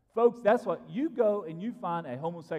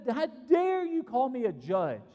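mob outrage; 4 semitones higher than usual. Retold or imitated. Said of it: "They looked at Lot and said".

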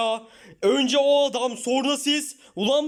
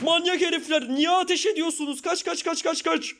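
panicked fleeing; 4 semitones higher than usual. Acted.

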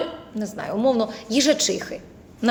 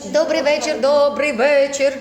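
stretched, louder cartoon voice; cartoonish greeting; 4 dB louder, slower than usual. Shown as a demonstration. Teacher demos cartoonifying a greeting, slow and louder. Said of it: "оце називається замультяшити".

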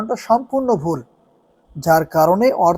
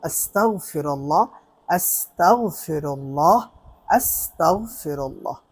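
prayer recitation; 3 dB quieter, slower than usual. Shown as a demonstration. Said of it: "তিনবার ইস্তিগফার পাঠ করব".

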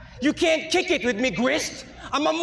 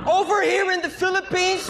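taunting shout; 4 semitones higher, slower than usual. Acted. Rapper taunting British opponent.

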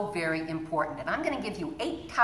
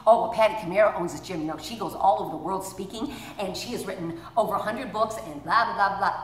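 rushed bragging. Retold or imitated. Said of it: "a girl that worked here that used to answer the phone".

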